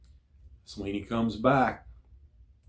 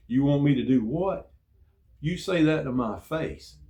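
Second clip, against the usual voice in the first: raised, higher mock yell at a sleeping sailor; half-acted angry shout, pitched up; retold yelling; 6 semitones higher, 5 dB louder than usual. Sailor yelling at a shipmate who cussed him out, mock angry shout. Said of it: "I started yelling at him".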